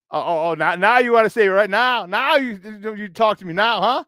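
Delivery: teasing, mock-indignant challenge; joking call-out with a rising pitch; playful ribbing. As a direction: bust his balls, stretching "now". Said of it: "you know I'm busting your balls".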